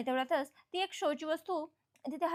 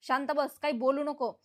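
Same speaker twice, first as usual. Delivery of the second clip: angry rebuke; 4 dB louder than usual. Retold or imitated. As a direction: shut her down, voice raised. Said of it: "जीवा मात्र आता खूपच चिडलेला असतो".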